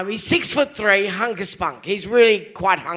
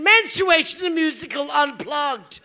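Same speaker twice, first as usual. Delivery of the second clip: Menstruation called out higher like a show title; grand announcement; 6 semitones higher than usual. Shown as a demonstration. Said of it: "The acoustic version".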